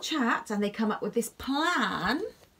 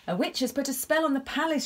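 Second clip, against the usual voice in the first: shouting; 5 semitones higher, faster than usual. Acted. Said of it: "shouted Charlie".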